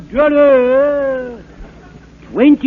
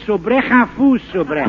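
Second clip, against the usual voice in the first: mock French. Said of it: "talking in French like this".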